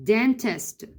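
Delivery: slow dentist. Shown as a demonstration. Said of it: "هنحفظ dentist إزاي؟".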